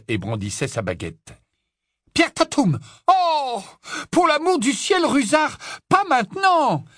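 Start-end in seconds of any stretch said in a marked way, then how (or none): 2.1-6.8 very high-pitched outcry; exasperated shout. Acted. Professor interrupted by the caretaker mid-spell, exasperated shouting. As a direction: call out, then scold at full pitch.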